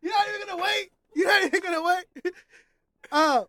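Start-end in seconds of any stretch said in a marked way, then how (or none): 0.0-2.3 laughing through the words; giggling disbelief. Real, not acted. Laughing at friend's quick answer.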